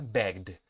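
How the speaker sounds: "Begged" as one syllable with a voiced D ending. Shown as a demonstration. Teacher models "Begged" for class, -ed pronounced as D. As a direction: say "Begged" as begd, no second vowel. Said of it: "Este se va a pronunciar con la D".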